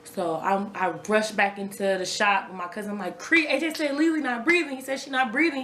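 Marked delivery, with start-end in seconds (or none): 3.2-5.6 higher-pitched urgent report; retold alarm. Mother rushing in to tell her cousin, urgent alarm. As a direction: replay breaking terrible news in alarm.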